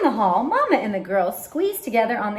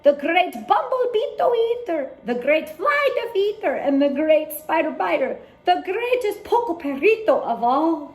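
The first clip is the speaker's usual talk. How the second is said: proud hero; 5 semitones higher than usual. Acted. Hero proudly announces himself.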